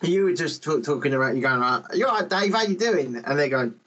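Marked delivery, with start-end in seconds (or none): 1.9-3.2 chirpy higher English voice; cheerful, a touch naive, higher; friendly English schoolboy, pitched up; mock English greeting. Imitating posh English greeting.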